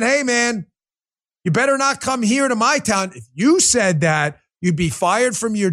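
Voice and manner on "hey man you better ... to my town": mock liberal voice. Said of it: "This is a liberal Democrat saying".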